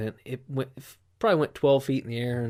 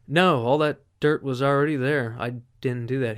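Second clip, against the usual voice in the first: deadpan lie, louder; straight-faced denial; 7 dB louder than usual. Retold or imitated. Drunk guy lying to the cop, deadpan loud denial. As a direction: deny it flatly with a straight face. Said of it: "I told him with a straight face".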